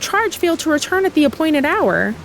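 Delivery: NPC voice. Acted. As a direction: read it like a courteous knight. Reads NPC dialogue aloud.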